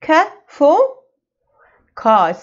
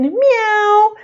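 kitten meow; 8 semitones higher than usual. Pretend. Imitating kitten for children.

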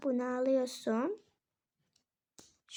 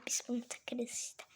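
whispered aside; 7 dB quieter than usual. Real, not acted. Aside while packing.

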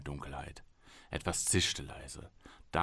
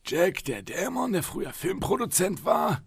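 slowly, higher and incredulous; slow repeat; 12 semitones higher, 5 dB louder than usual. Acted. Psychologist slowly repeating Travis's claim back to him. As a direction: spell it back as if humouring him. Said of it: "wiederholte der Psychologe langsam".

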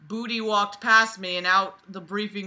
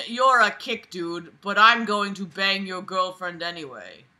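jovial tune. Retold or imitated. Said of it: "jovial tune".

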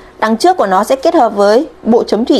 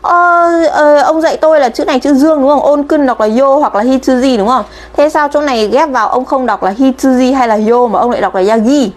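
lightly acted student challenging the teacher; mock arguing. Student disputing the teacher over kanji readings, mock arguing. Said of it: "các bạn ngồi cãi nhau à".

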